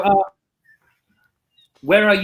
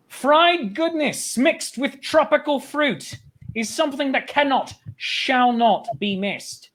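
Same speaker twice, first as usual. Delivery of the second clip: poem recital. Pretend. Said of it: "write a sonnet in ten minutes".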